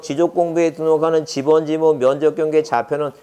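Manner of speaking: mock a leisurely word-by-word read-through; leisurely wrong reading. Shown as a demonstration. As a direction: demonstrate reading too leisurely, evenly droning along. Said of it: "이렇게 천천히 즐거워하면서".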